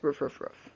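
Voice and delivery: quiet imitated ruff ruff; soft dog barking. Shown as a demonstration. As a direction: softly bark like a dog. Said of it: "and she says".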